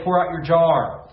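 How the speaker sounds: "Pour out your jar" called out loud, punching "pour". Shown as a demonstration. Pastor calling the congregation to repeat, loud. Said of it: "someone say".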